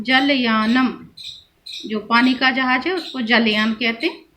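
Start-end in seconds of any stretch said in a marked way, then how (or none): 0.0-1.1 जलयानम drawn out slowly with a clear final म; slow careful pronunciation. Shown as a demonstration. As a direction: sound out जलयानम slowly, closing on म. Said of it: "मा उच्चारण हो रहा है ना". (जलयानम धीरे धीरे, अंत का म साफ़)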